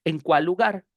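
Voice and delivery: EN CUÁL LUGAR flowing as one word, one L; linked consonants. Shown as a demonstration. Teacher giving the final example to students, consonants linked. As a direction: glide from "cuál" into "lugar" on a shared L. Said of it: "se convierte en una sola palabra".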